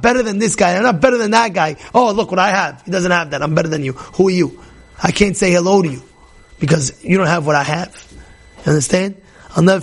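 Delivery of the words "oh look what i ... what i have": arrogant boast. Retold or imitated. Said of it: "the arrogance that you feel like, "Oh, look at me".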